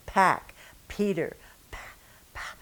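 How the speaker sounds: pack, Peter, pa with the p stressed and puffed; English heavy p. Shown as a demonstration. Teacher showing English emphasis on consonants. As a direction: hit the p hard in pa. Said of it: "we give a lot of emphasis to the consonants".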